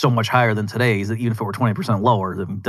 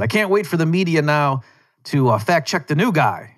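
higher-pitched mock eagerness; sarcastic; 4 semitones higher than usual. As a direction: feign eager anticipation, sarcastically. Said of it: "that I sarcastically said".

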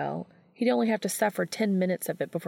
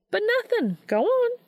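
higher, louder, brooking no argument; firm command; 4 dB louder than usual. A narrator's reading. Missouri sending Dean to Castiel, firm and loud. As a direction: shoo him out the door.

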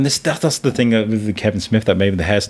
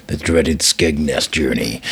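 low, drawn-out ominous naming; slow and low, leaning on DREADED; mock dread; 6 semitones lower, slower than usual. Real, not acted. Recalling a nightmare trip to Skegness, mock dread.

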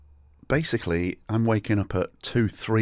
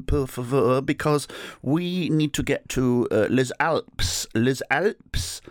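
halting, high-pitched Englishman's French; mangled French with exaggerated accent; bad French; 7 semitones higher, slower than usual. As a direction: stumble slowly through terrible French, fishing for words. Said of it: "badly ask in French".

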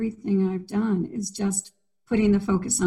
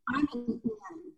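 much higher, slow, dainty mock royal voice; mock prim voice; 12 semitones higher, 12 dB quieter, slower than usual. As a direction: play the prim princess-style Anne. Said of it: "I'm so not an Anne".

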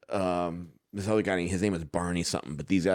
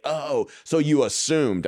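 mock realization; 6 semitones higher, slower than usual. Mimics Brit's reply on realizing.

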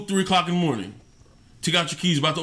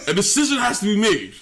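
shouted emphasis. Acted. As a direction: hammer it home and shout it. Repeated louder after a laugh.

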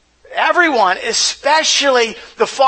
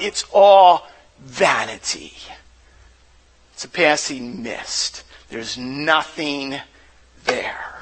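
weary hush; 8 semitones lower, slower than usual. Retold or imitated. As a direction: let Solomon's verdict fade to a hush. Solomon's weary verdict on pleasures.

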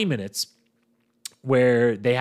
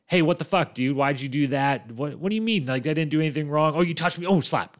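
retold heated argument; 4 semitones higher than usual. Recapping the fight, he voices Shane and Steven in mild heated argument. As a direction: play both sides of the argument with mild heat. Acted argument after the slap.

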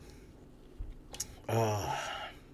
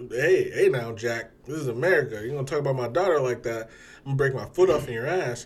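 louder threatening father; mock threat; 4 semitones higher, 8 dB louder than usual. Quoting the father threatening the suitor, loud. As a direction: bark it like an angry dad.

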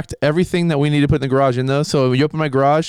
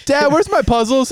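put-on high kid voice calling out; yelling across the room; 11 semitones higher than usual. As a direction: call to Dad from another room. Kid calling to dad across house.

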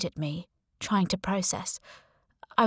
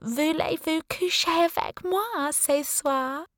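slow, breathy whispered mock French accent, pitched up; 9 semitones higher, slower than usual. Becky flirts with her friend, whispered mock French accent. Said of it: "put on her best mock French accent".

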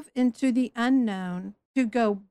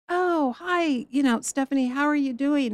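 higher, bright mock-friendly hello; cheery churchgoer greeting; 4 semitones higher than usual. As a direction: play the overly chipper church friend.

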